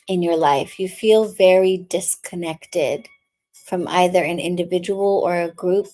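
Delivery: calm intuitive reading voice; tarot reading. Acted. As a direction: speak gently to the viewer as a reader. Tarot reading for water signs.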